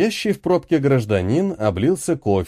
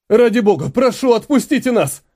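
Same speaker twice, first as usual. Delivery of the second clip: высоко и громко, отчаянная мольба; умоляй, срываясь на высокий голос; 9 semitones higher than usual. Acted. Отец молит о пощаде. (отец в отчаянии молит командира отпустить семью)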